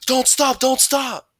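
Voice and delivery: high, loud urging; pressing high-pitched shout; urgent yell. A narrator's reading. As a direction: yell to keep someone running. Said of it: "would yell".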